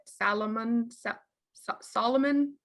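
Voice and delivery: "Salomon" as SAL-uh-mun, stumbling into "Solomon"; fumbled pronunciation attempts. Shown as a demonstration. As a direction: grope from "Salomon" to a questioning "Solomon". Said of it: "I can't even say it".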